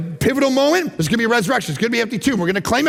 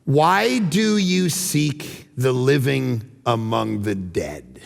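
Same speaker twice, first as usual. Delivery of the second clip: slow, low, fading to a hush; solemn angel proclamation; 8 semitones lower, much slower than usual. Acted. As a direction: deliver it like sacred gold. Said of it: "Listen to this line, it's gold".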